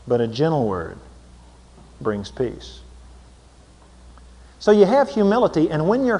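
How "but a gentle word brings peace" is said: gentle and soft. Shown as a demonstration. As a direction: drop much lower and softer on the gentle words. Contrasting harsh and gentle words.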